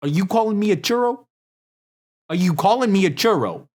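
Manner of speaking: high offended put-on voice; mixed silly voices. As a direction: play it mock-offended, shifting voices. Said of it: "four different voices in one".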